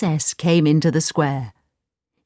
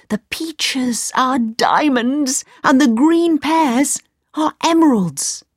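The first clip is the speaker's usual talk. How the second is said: put-on high, slow, marveling boyish voice; eager young Aladdin; 7 semitones higher than usual. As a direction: son convincing doubtful mother.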